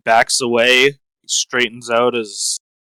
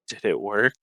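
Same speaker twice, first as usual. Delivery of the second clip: deadpan; 4 dB quieter than usual. Acted. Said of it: "very deadpan up at him".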